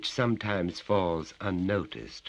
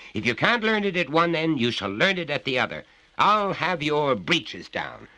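raised, higher threat; threatening father; 10 semitones higher, 7 dB louder than usual. Acted. Father threatens his son with a beating, raised. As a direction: promise the beating.

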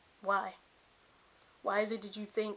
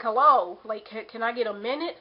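a much louder "Hello" that drops back to plain for the ask; calling out to get attention, then asking; exasperated hello; 7 dB louder than usual. Retold or imitated. Asking the people around her for a minute, loud exasperated call. Pleading to be heard.

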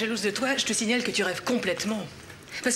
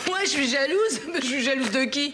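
outraged, laughing it off; mock-shocked protest; indignant disbelief; 5 semitones higher than usual. Indignant denial in sister quarrel.

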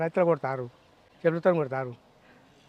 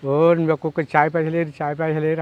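mocking quote; 6 dB louder than usual. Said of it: "అన్నావు".

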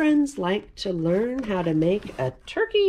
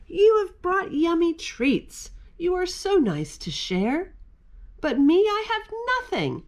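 sad bear voice; 9 semitones higher than usual. Acted.

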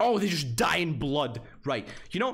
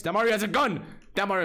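higher, louder astonished exclamation; surprised shout; 8 semitones higher, 5 dB louder, much faster than usual. Real, not acted. Streamer spots Mario holding a gun, surprised shout. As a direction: blurt it out in disbelief.

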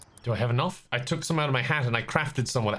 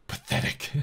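imagined dismissive remark; 4 dB quieter than usual. Retold or imitated. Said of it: "looked at my stuff and just went".

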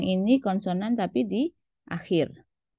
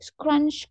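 "scrunch" spoken higher, a crunchy snow sound; mock crunch sound; 7 semitones higher, 3 dB louder than usual. Shown as a demonstration. Teacher sounding out an onomatopoeia for the class. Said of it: "Contohnya di sini".

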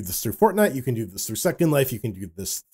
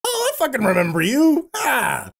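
surprised; 10 semitones higher than usual. Retold or imitated. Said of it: "I'm like".

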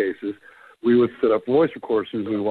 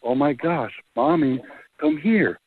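lightly voiced scared little girl, a bit higher and slow; imitating a little girl; 5 semitones higher than usual. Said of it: "You hear this little girl going".

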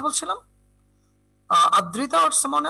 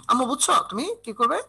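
usual speaking voice

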